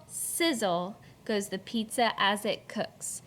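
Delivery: beat-led read-aloud with sound words popped up; rhythmic poem reading. Shown as a demonstration. Teacher reads poem to class with bouncy rhythm. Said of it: "Listen to the beat as the teacher reads this poem".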